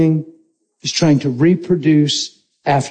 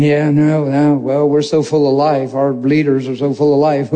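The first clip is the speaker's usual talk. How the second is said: sarcasm; 4 semitones lower than usual. Retold or imitated. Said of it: "And there's sarcasm".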